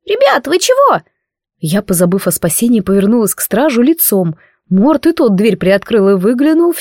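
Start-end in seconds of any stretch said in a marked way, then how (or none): 0.1-1.0 very high, offended little voice; a small spirit feeling wronged; hurt squeaky voice. A narrator's reading. The spirit asks them, hurt, in a squeaky voice. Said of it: "обиженно произнёс".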